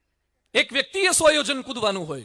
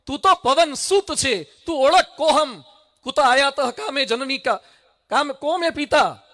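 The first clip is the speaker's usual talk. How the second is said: slow, louder, weighty words; stirring reminder; 3 semitones higher, 6 dB louder, slower than usual. Acted. Jambavan stirs Hanuman to remember his birth, slow and strong. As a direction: lean into each word slowly.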